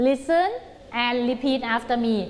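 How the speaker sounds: stretched, slow call to repeat; slow teacher command; slow classroom instruction. Shown as a demonstration. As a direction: lead the class slowly. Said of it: "teacher instructing class".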